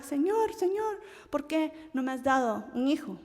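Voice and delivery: high, pleading cry to the Lord, easing off after the first word; mock-weeping plea for a child; Ana crying to God. Ana weeping before the Lord in the tabernacle, pleading. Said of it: "fue a llorar".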